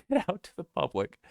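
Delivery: reading it in a high, mocking tone; a high sneering read. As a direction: lift the voice high to ridicule the post. Mocking Trump's post while reading.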